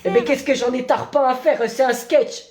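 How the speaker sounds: badly faked Marseille accent; hammed-up Marseille accent. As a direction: protest in a put-on Marseille accent. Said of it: "l'accent marseillais".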